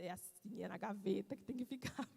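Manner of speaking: put-on storytelling to a child. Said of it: "eu faço uma história da meinha".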